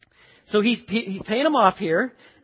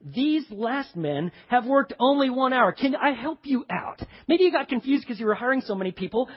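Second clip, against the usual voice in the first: higher-pitched aggrieved complaint; ranting grumbler; 3 semitones higher than usual. Acted. Worker complaining to the landowner, indignant rant. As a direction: plead your case in outraged disbelief. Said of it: "raging and ranting and raving and spitting".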